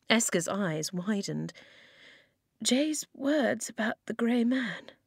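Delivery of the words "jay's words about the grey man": slow, effortful whisper; forced whisper. A narrator's reading. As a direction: whisper slowly, forcing the words out. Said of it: "She forced her voice on".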